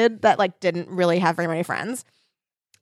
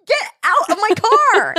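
high, loud, drawn-out order; indignant yell; 13 semitones higher, 6 dB louder than usual. Retold or imitated. Car owner ordering the woman out, yelling. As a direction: yell it slowly, word by word.

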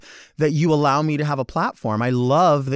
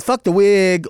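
fan yelling fuck the wig, louder; mock carefree shout; 4 semitones higher, 6 dB louder, slower than usual. Fan ripping wig off, mock shout. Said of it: "because you're like".

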